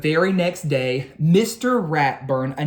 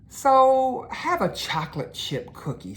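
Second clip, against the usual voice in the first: Mother's offer; 8 semitones higher than usual. A narrator's reading. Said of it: "said Mother".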